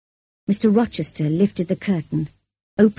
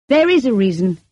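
said clearly; 4 semitones higher, 4 dB louder than usual. A narrator's reading. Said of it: "said clearly".

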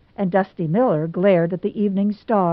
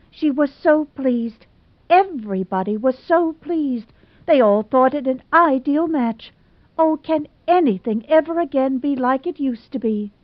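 tearful lament; 6 semitones higher than usual. Acted. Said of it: "sobbed Hazel".

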